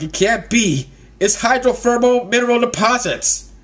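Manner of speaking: high-pitched mock alarm; alarmed Nami. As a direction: gasp out the dire discovery. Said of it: "Nami notices the smoke".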